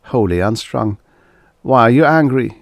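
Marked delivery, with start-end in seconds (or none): 1.6-2.6 loud, high blurting question; blurted out. A narrator's reading. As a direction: blurt it out, hurt. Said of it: "he blurted out".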